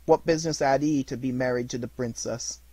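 high, loud, overjoyed rush of memories; between laughing and crying. A narrator's reading. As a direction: gush like a delighted child. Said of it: "voice between laughing and crying".

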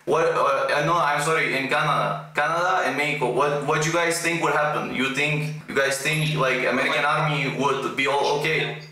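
reasoning in a fake Russian accent; put-on Russian accent. Pretend Russian asking Americans to imagine bases nearby, Russian accent. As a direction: make the case as a pretend Russian, accent thick. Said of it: "I put on my best Russian accent".

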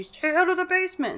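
mock parental yell, held back; hammed-up telling-off without full volume; shouting dad. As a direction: imitate a scolding father. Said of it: "and then he shouts at you".

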